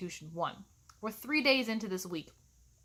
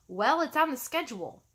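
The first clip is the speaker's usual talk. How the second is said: snarky. Pretend. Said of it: "I want to say things like".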